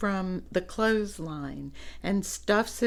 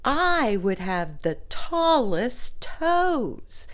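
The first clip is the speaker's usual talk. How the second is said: higher, louder, slow eager pig wish; excited pig; 4 semitones higher, 5 dB louder, slower than usual. Acted. Reading to children, excited pig voice. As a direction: make the pig's wish big and slow. Pig's line read aloud.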